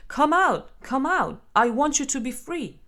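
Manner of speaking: loud impatient coaxing through a door; pounding demand. Pretend. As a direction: call through the door, pushing hard. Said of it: "Don't pound on the door saying".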